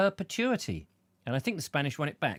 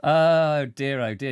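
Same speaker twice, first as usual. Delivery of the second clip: mock loud dismay; 7 dB louder, slower than usual.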